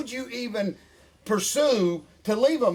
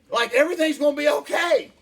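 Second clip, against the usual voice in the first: laughing encouragement; 7 semitones higher, 4 dB louder than usual. Shown as a demonstration. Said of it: "I'm just gonna tell you something positive".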